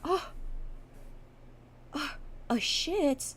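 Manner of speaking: high, drawn-out mock offence; offended girlfriend. Streamer plays girlfriend hurt by crude word, high and offended.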